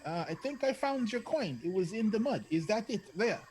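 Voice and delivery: yelling. Acted. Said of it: "he's gonna yell".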